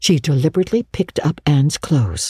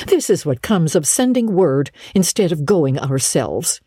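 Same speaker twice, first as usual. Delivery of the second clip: lightly raised pitch, vexed housekeeper; vexed woman; 4 semitones higher than usual. Acted. Marilla to Matthew about the mistaken girl, vexed. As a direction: lay down the law, mildly cross.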